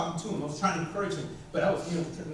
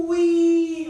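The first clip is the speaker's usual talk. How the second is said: louder, higher joyful "Wee"; gleeful cheer; 6 semitones higher, 7 dB louder than usual. Retold or imitated. Son cheers on the scary drop, loud and high. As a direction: shout it like a happy kid on a ride. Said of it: "he go".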